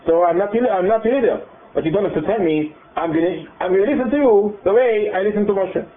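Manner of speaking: the offended leader putting them in their place; indignant new leader. Acted.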